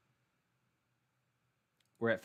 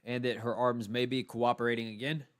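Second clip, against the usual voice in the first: yawning. Real, not acted. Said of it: "Sorry that I'm yawning".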